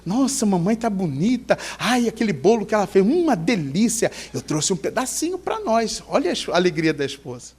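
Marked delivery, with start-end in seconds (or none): 0.1-6.0 lightly acted delighted wife; a touch of cooing delight; happy wife. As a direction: gush softly about the visit. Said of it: "fica toda feliz".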